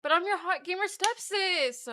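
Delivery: slow and coy, lightly put on; stepsister voice. Playing the gamer stepsister for the camera, lightly coy. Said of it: "Do the stepsister voice".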